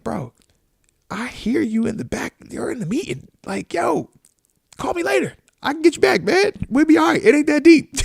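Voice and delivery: quietly shrugging it off to a busy friend; hushed mock reply. Telling his busy friend to call later, soft and rising. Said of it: "I'm like".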